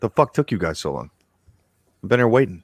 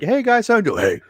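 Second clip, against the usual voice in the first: brash zombie destroyer talking trash to Daryl; hammed-up zombie hunter; 7 semitones higher than usual. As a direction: puff up like a gung-ho survivalist. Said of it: "I'll go from, like".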